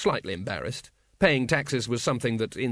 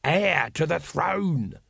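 slow, raised vendor voice; patient explaining; 5 semitones higher, much slower than usual. A narrator's reading. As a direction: spell it out slowly for a slow listener. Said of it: "said Throat patiently".

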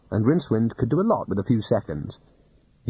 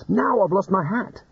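whining wizard; 8 semitones higher than usual. Acted. Rincewind whines about hat.

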